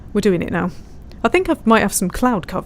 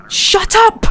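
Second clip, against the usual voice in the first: mock snap; 12 semitones higher, 4 dB louder than usual. Real, not acted. Snapping at someone.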